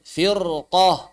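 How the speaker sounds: FIRQAH with a heavy, dark r; thick r. Shown as a demonstration. Teacher contrasts it with fasbir, thick r. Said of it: "Tapi kalau firqah tebal".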